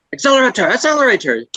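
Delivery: put-on hammy Swedish accent shouting; bad Swedish accent. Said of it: "It's a bad Swedish accent".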